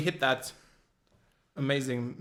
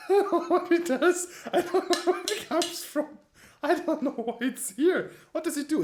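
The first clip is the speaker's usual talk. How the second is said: squeaky high voice; 4 dB louder than usual. Pretend. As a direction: squeal it out in a high silly character voice. High laughing put-on voice.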